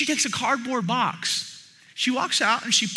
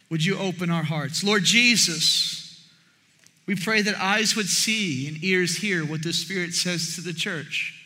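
low, measured prayer; 5 semitones lower, 3 dB quieter than usual. Real, not acted. Pastor praying to Lord Jesus for the church, lowered prayerful voice.

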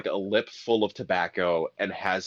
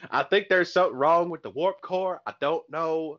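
put-on Southern accent. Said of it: "deep Southern accents".

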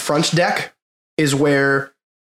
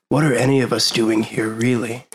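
hippy-dippy; 3 semitones lower than usual. Acted. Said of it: "something really, like, hippy-dippy".

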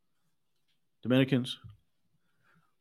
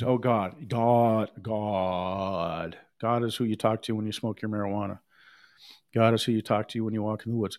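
mocking society's view; 4 semitones lower than usual. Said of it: "We live in a society that thinks".

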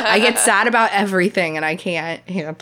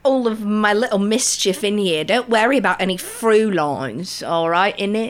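put-on Cockney accent. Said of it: "does not have a Cockney accent".

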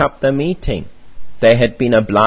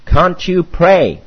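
high, drawn-out, raised-voice appeal; loud cry; 7 semitones higher, 5 dB louder, slower than usual. A narrator's reading. Preacher to the staring old man, crying out loudly. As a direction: call it out slowly, high and loud. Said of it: "cried at the top of my voice".

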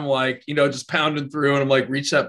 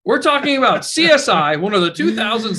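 excited; 8 semitones higher, 4 dB louder than usual. Real, not acted. Defending CSI after fake snoring.

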